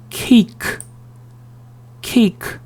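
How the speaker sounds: "케이크" as English "cake", high-pitched; high, separate "케이크", said "keik"; "ei" diphthong. Shown as a demonstration. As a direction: model "케이크" with a clear "ei" and released k. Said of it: "A, 이 발음을 해준".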